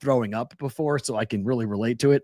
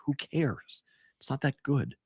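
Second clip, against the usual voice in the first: dismissive; 8 dB quieter, slower than usual. Retold or imitated. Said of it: "I was like".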